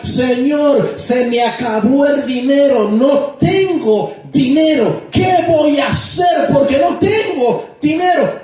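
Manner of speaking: pleading to God, rising to a cry on the question; desperate crying prayer. Retold or imitated. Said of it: "empezó a orar y a llorar".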